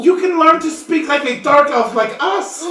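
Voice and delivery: put-on high, loud child voice; excited. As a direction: gush with childlike glee. Elf child gushes.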